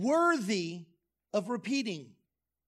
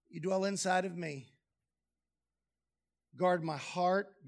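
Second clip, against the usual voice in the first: prayerful voice; 2 semitones lower than usual. Pretend. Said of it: "needs to be in the context of".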